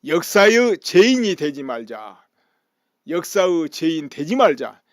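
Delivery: loud mock yell, stretching the slogan; imitated protest shout. Supporters of Park in the courtroom gallery, imitated shouting. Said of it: "이렇게 소리 질렀어요".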